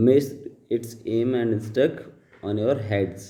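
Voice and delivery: slow, deliberate read-aloud of the paragraph; slow dictation reading. Shown as a demonstration. Teacher reading the paragraph aloud to students, slow and deliberate. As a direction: read each word out slowly for the class. Reads slowly.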